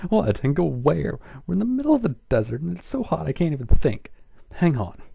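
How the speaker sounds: fast, high, loud and frantic. Acted. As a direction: rattle it off in a panic. Twilight frantic in heat.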